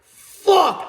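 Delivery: retold eureka cry; excited realization. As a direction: burst out with the realization. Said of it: "I was like".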